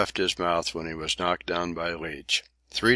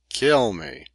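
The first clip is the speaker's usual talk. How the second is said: kill me flung out much higher; rising shriek; 7 semitones higher than usual. A narrator's reading. Leach daring the captain at the peak of rage. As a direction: push the last kill me up into a scream. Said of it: "ecstasy of impotent rage".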